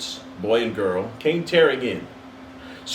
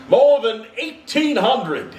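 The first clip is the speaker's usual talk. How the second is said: slow, high, loud proclamation; solemn spirit, slow and grand; grand ghost reply; 9 semitones higher, 4 dB louder, slower than usual. Acted. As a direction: give the number with lofty pride. Ghost answers Scrooge.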